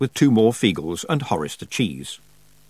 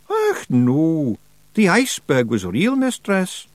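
high Scots pixie voice, slow and hopeful; a wee Scots pixie begging to keep a pet; Feagle voice; 8 semitones higher, slower than usual. Acted. Feagle voice held.

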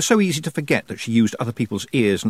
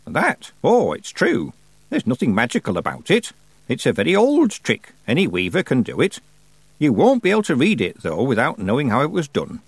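put-on raised, deliberate voice of an imperious old witch; old witch Miss Treason; 3 semitones higher than usual. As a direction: play the grand old witch holding court. Miss Treason explains weaving.

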